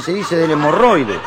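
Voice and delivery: slow, careful correction; prissy daughter. Acted. Affected daughter correcting her father's crude word, prissy correction. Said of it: "tenía una hija petitera".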